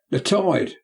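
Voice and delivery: a touch of a startled shout; cry. Acted. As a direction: cry out as the murderer. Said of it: "cried the murderer".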